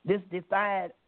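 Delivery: measured spoken-word reading with weighted pauses; proud, defiant poetry reading; poem recitation. Acted. Reads her own dialect poem.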